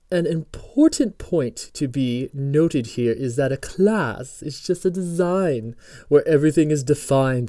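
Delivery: slow, drawn-out fake British accent. Teacher reading the tutorial text aloud, fake British accent. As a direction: read it out in a mock British voice. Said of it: "I'll do it in a British accent again".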